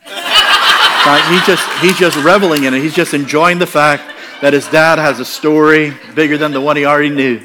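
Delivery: can barely get it out for laughing. Real, not acted. Laughing while telling son's reaction.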